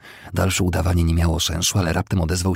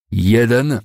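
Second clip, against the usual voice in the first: high, loud count; resounding call; 6 semitones higher, 7 dB louder than usual. A narrator's reading. Second counting paces at a duel, loud call. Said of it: "zawołał donośnie Smith".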